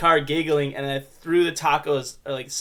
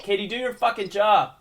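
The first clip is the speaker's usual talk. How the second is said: scolding the cat; 4 semitones higher than usual. Acted. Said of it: "cursing at a cat".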